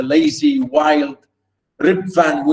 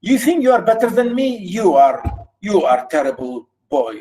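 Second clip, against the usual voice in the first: mocking questions, quick and high, falling to a verdict; father sneering at his son's schooling; 3 semitones higher, faster than usual. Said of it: "now he's mocking him".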